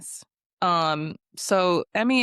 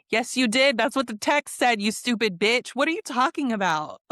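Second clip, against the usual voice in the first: mock-indignant comeback, voice lifting; exasperated retort; 2 semitones higher than usual. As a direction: act out an exasperated clapback. Exasperated clapback acted in retelling.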